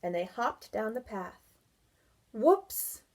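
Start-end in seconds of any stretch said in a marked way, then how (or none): 2.3-3.0 high loud playful whoops; boy laughing at lost slippers. Acted. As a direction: laugh it out as you slip. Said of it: "Barry laughed".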